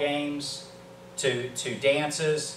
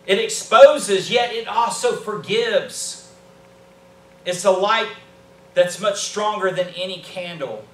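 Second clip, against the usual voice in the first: raised pitch, loud emphatic preacher delivery; impassioned preaching; 6 semitones higher, 7 dB louder than usual. Real, not acted. Preacher declaring to the church that grace renews and forgives, impassioned. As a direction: preach it out forcefully, punching key words. Preacher building to full force.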